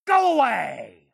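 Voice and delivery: angry shout. Acted. Old man ordering intruder out.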